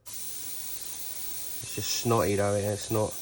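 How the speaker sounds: blocked nose. Real, not acted. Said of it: "a little bit bunged up sounding".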